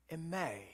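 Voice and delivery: "eme" with the emphasis on its last syllable; stress on last syllable. Shown as a demonstration. Preacher showing congregation how the Greek is said, "eme" stressed on last syllable. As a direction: lean on the end of "eme". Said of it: "emphasis on the, the last syllable".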